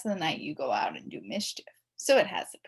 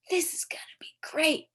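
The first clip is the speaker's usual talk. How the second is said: whispered; 9 semitones higher than usual. A narrator's reading. Boy whispering to his friend while hiding behind a car, excited whisper. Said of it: "Ryan whispered".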